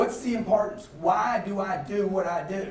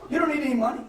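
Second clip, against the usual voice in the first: higher, laughing words; laughing while talking; 6 semitones higher than usual. Real, not acted. Joking with the seminar crowd, laughing through it.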